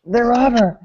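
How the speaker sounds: high-pitched exclamation of discovery; mock amazement. Inmate discovering the padded walls, mock amazement.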